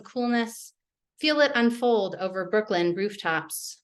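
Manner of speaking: measured, even poem reading; poetry reading. Acted. Poet reading her poems to the audience, measured. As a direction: let each image land with a small pause.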